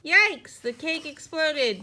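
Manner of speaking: loud, high startled outburst; father yelling at a kitchen disaster; alarmed yell. A narrator's reading. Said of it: "yelled Froggy's father".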